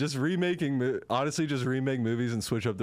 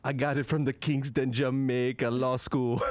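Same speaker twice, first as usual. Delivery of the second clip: put-on Jamaican accent. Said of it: "Jamaican attorney".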